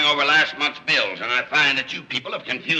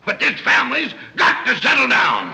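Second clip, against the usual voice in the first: bellowing; 6 semitones higher than usual. Acted. Father bellowing at family.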